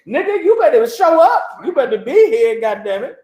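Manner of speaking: high, pushy mock boss with a laugh; bossy supervisor. Boss orders worker to show up, high mock bossy voice. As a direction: bark the order like a foreman.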